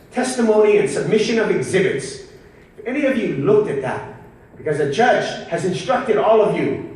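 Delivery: lightly acted defense lawyer addressing jurors; closing argument. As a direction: plead a case formally to the jury, pitch lifted a little. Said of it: "So I would do a closing argument".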